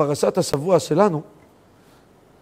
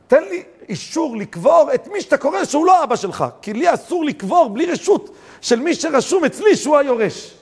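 mild pleading; 9 semitones higher, 3 dB louder than usual. Retold or imitated. ZAKA volunteer pleads with son.

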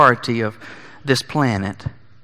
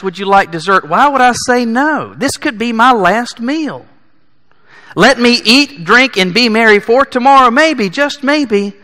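mock carefree; 5 semitones higher, 4 dB louder than usual. Mock hedonist voicing his logic.

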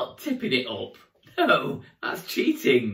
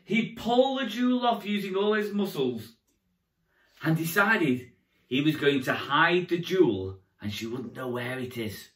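put-on storytelling to young children; kids party magician. A narrator's reading. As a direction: tell it like a children's entertainer.

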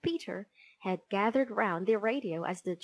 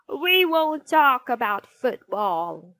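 loud teacher laying down the law; stern threat; 4 semitones higher, 9 dB louder than usual. A narrator's reading. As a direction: threaten to withdraw the treat. Teacher threatens noisy class.

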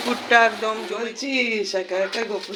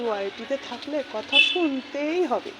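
lightly voiced quote, a touch higher; quoting a retort; 4 semitones higher, 3 dB quieter than usual. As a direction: say it as if quoting someone else. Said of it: "আবার বলে নাকি". (অন্যের কথা নকল করে বলা)

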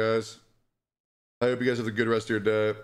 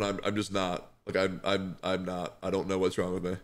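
2 voice sinking low and quiet, lower; 3 barely holding it together, trailing off softer; 1 real distress; 4 semitones lower, 4 dB quieter than usual. Real, not acted. 4 streamer admitting to chat he's not okay, real quiet distress.

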